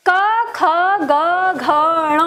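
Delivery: क ख ग घ ण said one by one, each from the throat, with a pause between; throat consonant demo. Shown as a demonstration. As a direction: sound out क ख ग घ ण clearly and separately, like a teacher. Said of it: "ये हमारे कंठ से उच्चारण होते हैं". (कंठ से क ख ग घ ण धीरे-धीरे अलग-अलग बोलकर दिखाना)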